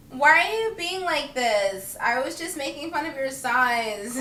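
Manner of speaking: slow high mock innocent whine; mock offended. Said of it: "looks at me like".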